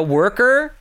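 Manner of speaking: worker with a strong rolled American R. Shown as a demonstration. Showing how he fakes an American accent, heavy American R. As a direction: lean hard on the R in worker. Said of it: "It's all just about adding R's".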